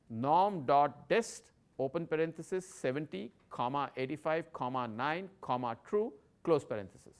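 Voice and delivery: formula read out piece by piece; dictating. Shown as a demonstration. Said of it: "So for this example, the function would be".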